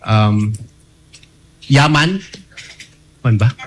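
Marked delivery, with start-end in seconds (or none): none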